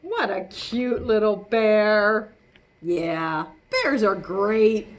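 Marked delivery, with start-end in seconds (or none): 0.0-2.3 slow, doting "What a cute little bear."; cooing tourist. Acted. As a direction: coo over the toy bear. Voice cooing at koala.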